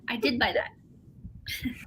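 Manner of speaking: slow guilty whisper; sheepish slow whisper. Real, not acted. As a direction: whisper the admission slowly. Admitting she bought it.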